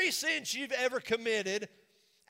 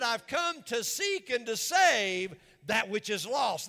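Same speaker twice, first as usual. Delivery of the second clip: preached proclamation; slower than usual. Acted. Preacher quoting Jesus, shout heard.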